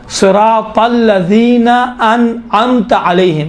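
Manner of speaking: measured Quranic recitation for learners; slow teaching recitation. Shown as a demonstration. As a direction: recite slowly, drawing out الذین. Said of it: "دیکھیں یہاں امام فرماتے ہیں".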